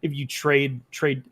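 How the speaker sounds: hiccups breaking up the words; hiccuping. Real, not acted. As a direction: talk through a hiccup. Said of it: "I'm hiccuping".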